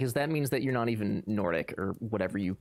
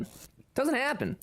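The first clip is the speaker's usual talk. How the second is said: "It doesn't happen" much higher and slow, like a mock whine; 13 semitones higher than usual. Shown as a demonstration. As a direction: jump much higher and stretch it slowly. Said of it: "mock-dramatic repeat of own line".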